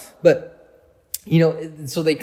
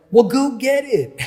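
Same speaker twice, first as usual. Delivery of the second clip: high, loud group retort; impatient shout, pitched way up; exasperated mock yell; 9 semitones higher, 7 dB louder than usual. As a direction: yell it like impatient kids sending him off. Acts out the team shouting back.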